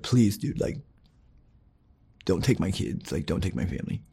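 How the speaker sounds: softly beg, fading near to a whisper; quiet pleading. Retold or imitated. Husband begging his wife on the phone, quietly pleading. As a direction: plead with a breaking, hushed voice.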